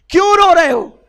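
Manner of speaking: the Prophet calling out to the crying man, loud and high; loud tender call. Acted. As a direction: cry out the question with feeling. Prophet asks the weeping companion.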